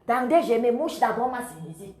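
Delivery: stuffy nose from sinusitis; talking through a blocked nose. Real, not acted. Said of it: "j'ai la sinusite".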